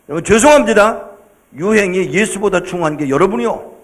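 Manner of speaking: ordinary talk, nothing marked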